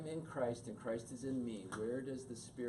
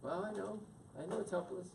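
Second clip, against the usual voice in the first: husband comforting; 8 semitones higher than usual. Shown as a demonstration. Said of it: "And then she'd go".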